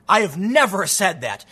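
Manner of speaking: "never" in "I have never said that" pressed down and held; mild public statement, weight on "never"; firm denial. Pretend. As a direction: plant "never" firmly with a falling end. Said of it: "make a public statement".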